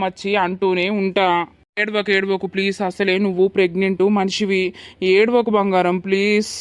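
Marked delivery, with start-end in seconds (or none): 1.8-6.5 tender, coaxing pleas; comforting. Acted. Husband begging his crying wife to stop, tenderly. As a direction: soothe her like a loved one.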